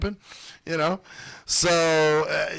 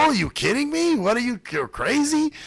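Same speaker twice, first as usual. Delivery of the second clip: imitated Italian lady; 8 semitones higher than usual. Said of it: "older Italian lady".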